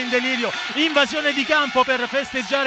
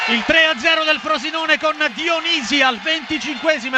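excited goal call; 3 semitones higher than usual. Real, not acted. Goal call in radio commentary.

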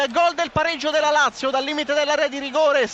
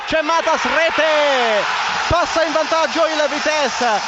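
excited goal call; 3 semitones higher, 4 dB louder, slower than usual. Real, not acted. Goal call in live commentary.

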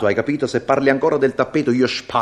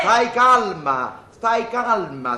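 very slow, mock-soothing; slow calming; 6 semitones higher, much slower than usual. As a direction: drawl it out to calm her. Soothing trapped wife.

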